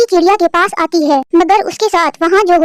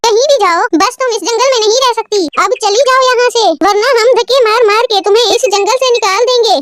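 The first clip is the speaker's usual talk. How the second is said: higher, threatening dismissal; haughty bird queen; 5 semitones higher than usual. Acted. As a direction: drive her out coldly. Rani throws Tina out. (टीना को भगाती रानी, धमकी भरी)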